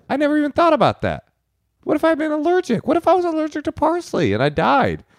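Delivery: high, hammed-up allergy panic; mock panic. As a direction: squeal it like a mock-terrified hypochondriac. Mock alarm at allergy idea.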